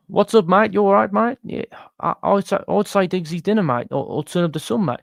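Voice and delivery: a high, loud mock Brummie voice; Brummie accent. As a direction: read the comment in a cheeky Brummie accent. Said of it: "Didn't know it was a Brummie".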